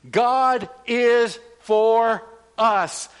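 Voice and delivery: each word drawn out and punched, GOD loudest; emphatic slow declaration. Shown as a demonstration. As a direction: preach it slowly for the church to echo. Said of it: "Say that with me".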